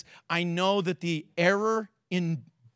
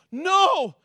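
pleading cry; 5 semitones higher than usual. Retold or imitated. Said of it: "He said".

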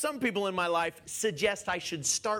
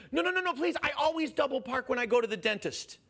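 pleading driver; 6 semitones higher, faster than usual. Retold or imitated.

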